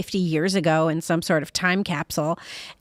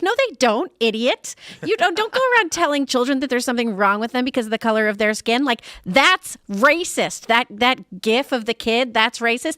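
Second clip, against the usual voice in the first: angry; 4 semitones higher, 3 dB louder than usual. Real, not acted. Indignant rant at legislator.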